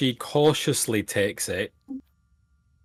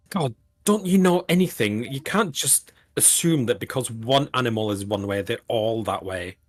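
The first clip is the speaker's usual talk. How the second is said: put-on angry teenager. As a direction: scoff like a sulky teenager. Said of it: "really, like, a typical angry teenager".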